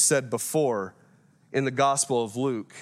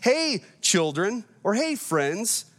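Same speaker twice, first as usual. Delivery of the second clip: playful, slow teasing hey; a light mock-friendly greeting; teasing call; 5 semitones higher, slower than usual. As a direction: tease them from the shore. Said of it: "he's just gonna start messing with them".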